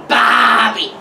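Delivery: "Barbie" said drawn out as BAH-bee; demonstrated Aussie pronunciation. Shown as a demonstration. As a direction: teach "Barbie" slowly as one big stretched word. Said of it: "Can you say barbie for me?".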